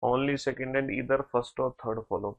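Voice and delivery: very slow, word by word, reading out an answer; slow dictation. Shown as a demonstration. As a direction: spell out the answer slowly for students. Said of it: "बहुत बढ़िया।".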